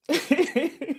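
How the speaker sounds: short high chuckle; a brief, real high giggle; laugh. Real, not acted. Preacher amused at silent congregation, short high chuckle.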